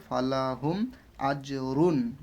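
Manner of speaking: রুন clear, no nasal hold; clear izhar. Shown as a demonstration. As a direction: say আজরুন with a crisp, unstretched n. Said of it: "স্পষ্ট করে পড়বো".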